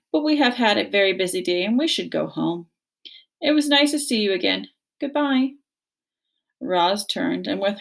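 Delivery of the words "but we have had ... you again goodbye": friendly voice. Acted. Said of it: "using a friendly voice".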